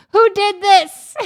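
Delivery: high, loud, drawn-out mock fury; hammed-up outrage. Uncle finding the smashed pots, badly acted outrage. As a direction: bellow it like a really bad actor. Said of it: "He's, like, outraged".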